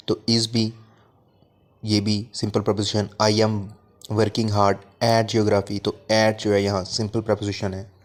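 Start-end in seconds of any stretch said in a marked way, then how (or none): 3.2-5.8 slow dictation. Shown as a demonstration. Teacher reads the example aloud slowly.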